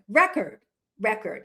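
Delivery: record as REK-erd, stress on first syllable; syllables run together. Shown as a demonstration. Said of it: "when you say it quickly together".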